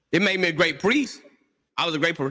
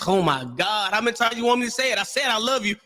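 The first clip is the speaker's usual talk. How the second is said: frustrated husband; 5 semitones higher, faster than usual. Retold or imitated. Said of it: "it's a different tone and it's frustration".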